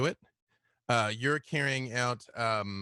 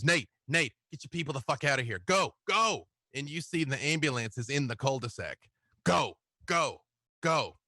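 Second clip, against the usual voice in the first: Jake urging escape; 3 semitones higher than usual. Acted. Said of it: "he goes".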